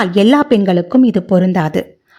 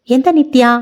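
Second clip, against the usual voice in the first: puzzled surprise; 6 semitones higher than usual. Acted. Caller surprises him on phone.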